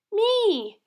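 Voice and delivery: high, loud eager yell; child yelling. Acted. Hannah answering who's hungry, high eager yell. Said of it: "yelled Hannah".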